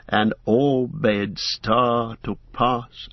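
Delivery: measured, chanted verse reading; solemn chanted poem; poem recitation. A narrator's reading. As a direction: recite the verse like an old lay. Reads Bilbo's poem aloud as chant.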